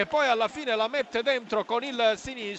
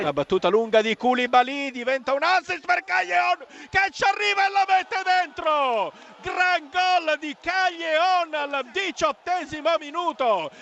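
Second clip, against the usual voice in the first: excited goal call; 5 semitones higher than usual. Real, not acted. Goal call in live commentary.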